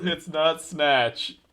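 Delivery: slow, drawn-out mocking echo; mocking a friend. Teasing the friend who named the wrong film, slow and mocking. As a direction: mimic the friend's slip, slowly. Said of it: "You know what?".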